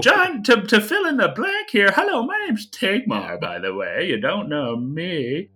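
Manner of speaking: a bumbling mage explains to a shocked father; cheery fumbling mage. Acted. GM voices Tigmar at length.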